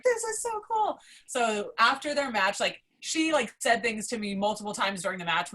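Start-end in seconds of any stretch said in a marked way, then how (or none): 0.0-1.0 high, giddy gush; giddy fan. Retold or imitated. Fan watching Becky see herself, high giddy gush. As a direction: say it like a thrilled kid. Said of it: "And I'm like".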